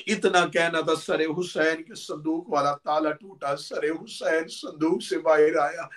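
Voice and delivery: lamenting preacher voice; mourning recitation. Acted. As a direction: tell the martyrdom as a lament to the mourners. Majlis lament narration of Karbala.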